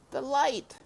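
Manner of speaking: murmured. A narrator's reading. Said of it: "he murmured".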